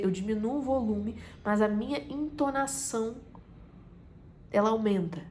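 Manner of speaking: ordinary delivery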